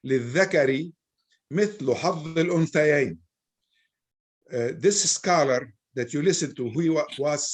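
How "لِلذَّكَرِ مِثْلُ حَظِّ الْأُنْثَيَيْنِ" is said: quoting the verse. Shown as a demonstration. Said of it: "I'll give you the ayah".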